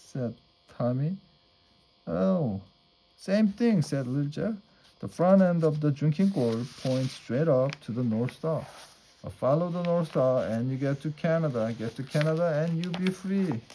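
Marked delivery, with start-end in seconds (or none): 2.1-13.6 lightly voiced eager boy, higher and a bit fast; a young runaway boy bursting to explain the stars; eager little boy. Little Jeff eagerly explaining the North Star to Tommy, lightly voiced eager boy.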